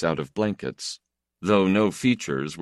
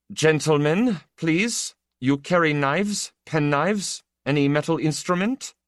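polite official; 10 semitones higher, 3 dB louder than usual. Acted. Official asks about knives.

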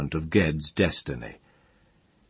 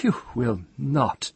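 high-pitched, disdainful denial; scornful Jasper; 8 semitones higher than usual. A narrator's reading. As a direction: flatly forbid him, pitched high. Jasper contradicts rival.

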